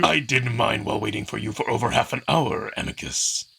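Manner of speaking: strict trainer scolding a late pupil; stern Kato. Acted. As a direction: rebuke with icy calm. Kato's sarcasm.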